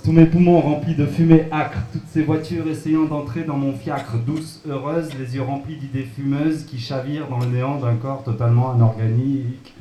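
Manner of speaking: loud, breathless poem push; all in one breath. Pretend. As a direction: pour it out without breathing. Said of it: "Donc un texte sans respirer".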